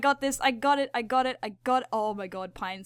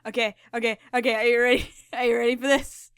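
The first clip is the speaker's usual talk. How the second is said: louder, fast hype-up; excited hype; 4 dB louder, faster than usual. Real, not acted. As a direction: tease the viewers before the big reveal. Hyping up a reveal.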